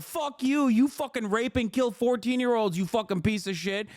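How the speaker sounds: hammed-up screaming insults; imitating a hateful leftist yelling; mock furious tirade. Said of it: "you're like".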